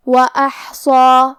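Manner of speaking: وَأَحْصَى with a full, heavy صاد and long heavy alif; heavy sad. Shown as a demonstration. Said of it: "صاد کو اور مد الف کو دونوں کو بھاری آواز میں". (وَأَحْصَى میں صاد اور مد بھاری آواز میں)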